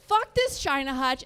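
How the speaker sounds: exasperated mock anger; fed-up snap. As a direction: snap like a husband who has had enough. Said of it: "this guy finally just fucking snaps".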